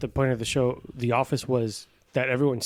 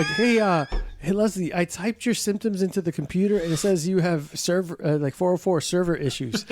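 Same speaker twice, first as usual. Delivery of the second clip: higher, goofy and earnest; dopey Andy voice; 4 semitones higher than usual. Retold or imitated. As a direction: play it like a clueless goof. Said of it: "he's like".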